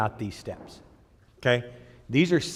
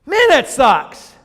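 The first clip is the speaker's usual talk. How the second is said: slow groan; 11 semitones higher, 11 dB louder, much slower than usual. Acted. Preacher groans at the truth.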